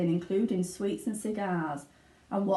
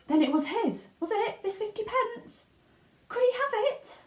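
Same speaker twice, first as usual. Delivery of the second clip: excited disbelief; 13 semitones higher than usual. A narrator's reading. Charlie's excited inner thoughts.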